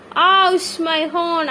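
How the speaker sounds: hurt bus voice. Acted.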